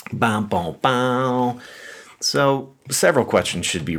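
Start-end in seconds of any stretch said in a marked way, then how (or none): 0.1-1.6 sung-out "bow, bow, bow" sting; mock dramatic sting. Preacher capping the parable's harsh ending, with a mock dramatic sting. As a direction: imitate an ominous musical cue.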